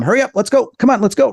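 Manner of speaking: high, hurrying little voices; urgent, high-pitched prodding; little creatures urging. Retold or imitated. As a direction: mimic tiny creatures rushing someone along. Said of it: "they're, like, telling my mom".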